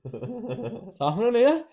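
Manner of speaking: very slow, high sleepy query; drowsy Nick. Retold or imitated. Nick waking on the couch, a slow sleepy question. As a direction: drag it out like you're barely awake. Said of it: "he'd just be like".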